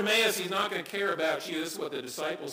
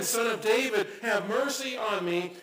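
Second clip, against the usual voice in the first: crying out; 5 semitones higher than usual. Retold or imitated. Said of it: "he cries out again and again".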